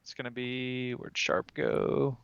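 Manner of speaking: ordinary talk, nothing marked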